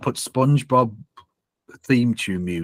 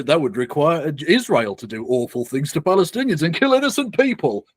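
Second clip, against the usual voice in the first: sarcastic, climbing much higher at the end; mock incredulity; 4 semitones higher than usual. Streamer mocks a guest's hypothetical, in sarcastic mock shock. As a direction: feign shock, pitch shooting up on the last words.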